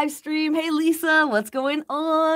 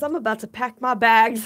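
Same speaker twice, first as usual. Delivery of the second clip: laughing; 2 semitones lower than usual. Real, not acted. Joking about moving, laughing.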